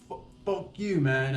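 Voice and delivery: play-acted angry challenge; mock fuming outburst. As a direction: imitate a dad losing it, without shouting. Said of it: "In the heat of the moment".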